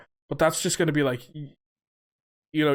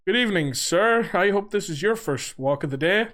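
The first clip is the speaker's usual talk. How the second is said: higher-pitched, lightly put-on polite cop; mock-official politeness, pitched up; police officer; 5 semitones higher than usual. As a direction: stop someone as a courteous policeman. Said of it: "he's like".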